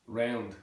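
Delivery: "Round" in Southern Irish; Southern Irish pronunciation. Shown as a demonstration. Teacher demonstrating Southern Irish, "Round" with Irish vowel. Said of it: "showing that O I sort of sound".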